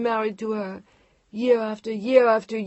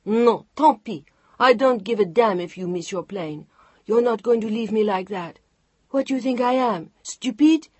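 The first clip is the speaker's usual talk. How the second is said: furious outburst; 5 semitones higher, 8 dB louder than usual. Acted. Chantal furious at Mark leaving.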